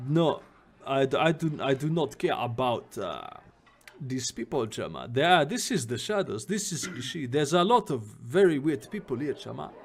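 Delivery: put-on game character in a loose Jamaican accent; attempted Jamaican accent. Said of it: "like, a Jamaican accent".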